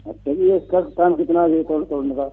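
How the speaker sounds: muffled phone-line voice. Real, not acted. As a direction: caller on a bad phone line. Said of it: "आपकी आवाज़ साफ नहीं आ रही जी".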